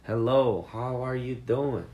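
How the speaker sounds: high, loud, friendly hello; friendly greeting. Shown as a demonstration. Teacher acts out a common friendly greeting. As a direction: call out a cheery hello. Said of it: "Isso é muito, muito mesmo".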